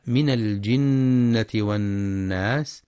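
slow chant; Quran recitation. Shown as a demonstration. Teacher reciting the verse, slow chant. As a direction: recite slowly.

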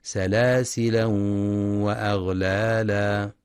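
سلاسلا with a final long a, carried on into وأغلالا; سلاسلا ending in a long a; with tanween. Shown as a demonstration. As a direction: read سلاسلا ending in a, the Nafi' way. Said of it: "بالتنوين وصلا".

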